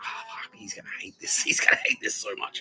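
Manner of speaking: retold crying. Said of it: "Tara was crying".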